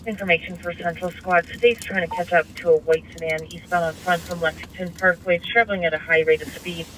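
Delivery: police radio. Real, not acted. Police dispatch heard over radio.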